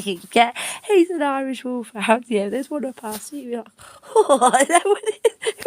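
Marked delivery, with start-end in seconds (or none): 4.1-5.7 surprised. Retold or imitated. Neighbour seeing the huge dog.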